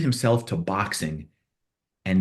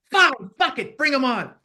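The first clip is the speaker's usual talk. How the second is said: very high mock-angry outburst; retold exasperated surrender; 3 dB louder than usual. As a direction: give in loudly, hamming up the row. Retold argument, giving in loudly.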